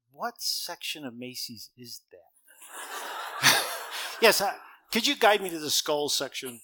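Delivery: slow, amused teasing, breaking into laughter; laughing joke. Retold or imitated. Pastor joking to the girl about her skull clothes, laughing. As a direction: tease her through a laugh.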